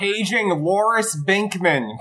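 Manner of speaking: slow mock PA announcement; over the intercom. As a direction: page someone like a school intercom. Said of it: "You guys sound like Mo at Mo's Bar".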